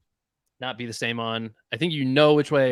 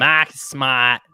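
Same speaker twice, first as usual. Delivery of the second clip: hammed-up name drop; 5 dB louder, much slower than usual. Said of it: "you just go so hard with it".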